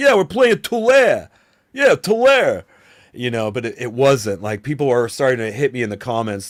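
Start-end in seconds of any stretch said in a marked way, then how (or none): 0.0-2.6 put-on loud, high-pitched New Jersey guy accent. Retelling how they first said the town's name: New Jersey accent. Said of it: "I said it like a guy from New Jersey".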